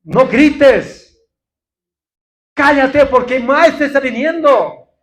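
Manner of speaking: loud, sharp telling-off of a beggar; the crowd scolding Bartimeo, mock stern; hushing rebuke. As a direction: shut him up, the master is coming. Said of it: "Es como hacer callar".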